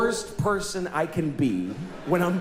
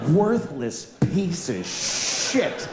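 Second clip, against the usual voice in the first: slow repeated insult; 2 semitones lower, much slower than usual. Retold or imitated. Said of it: "what an indictment".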